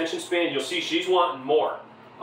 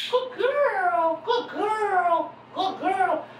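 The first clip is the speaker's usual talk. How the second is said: high, bright cheerful praise; upbeat happy praise; much slower than usual. Real, not acted. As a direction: cheer her on like a happy fan. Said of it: "very upbeat, you know, real happy".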